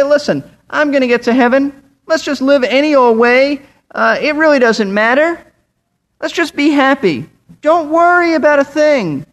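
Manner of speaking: high, breezy mock nonchalance; carefree excuse. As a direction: imitate someone shrugging it all off, pitched high. Voices a careless believer's excuse.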